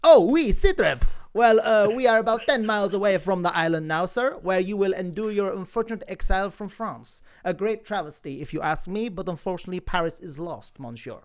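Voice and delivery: a hint of a formal officer breaking bad news; crew member reporting to his exiled leader. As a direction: begin with a hearty report, ease into regret.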